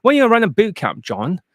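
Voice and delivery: high, pleading mock fan voice; begging fans. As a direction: whine the request like an eager student. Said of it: "Everyone's begging every single day".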